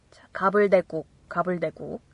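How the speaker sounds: whispered repetition of the word; hushed classroom drill. Shown as a demonstration. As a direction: breathe the word softly.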